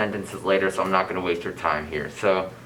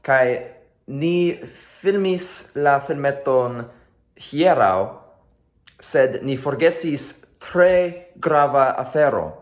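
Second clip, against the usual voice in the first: higher, slow friendly hello; cheery greeting; 4 semitones higher than usual. Real, not acted. Host greeting friends from home in Esperanto, cheery and higher. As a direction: welcome friends brightly.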